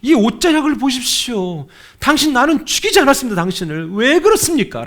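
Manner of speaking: pleading shout from afar; David calling out. Retold or imitated. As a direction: shout it from far away at Saul. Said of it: "저 멀리에서 사울한테 이렇게 얘기합니다".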